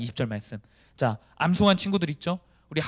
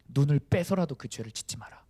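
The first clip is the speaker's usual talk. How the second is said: stern command. Acted. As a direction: lay down the command without raising the voice. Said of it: "단호하게 말씀하셨어요".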